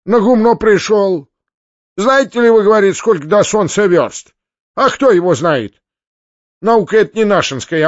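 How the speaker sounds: high, loud peasant storyteller; discontented peasant. A narrator's reading. Malcontent peasant mocks Foma's learning, high sardonic voice. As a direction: recount it high and loud, with a sting. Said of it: "ядовитое отравленное слово".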